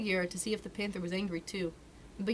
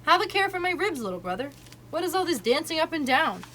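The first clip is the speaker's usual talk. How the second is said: aloud; 8 semitones higher, 5 dB louder than usual. A narrator's reading. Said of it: "And then aloud to Mowgli".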